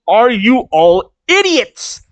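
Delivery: drawn-out exasperated scolding, rising high; furious, acted. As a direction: slowly scold them, punching the last word. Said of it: "And so she is furious".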